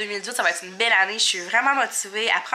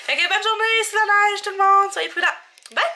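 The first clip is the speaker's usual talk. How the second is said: bright cheerful goodbye; 10 semitones higher, 3 dB louder than usual. Real, not acted. Cheerful sign-off to viewers.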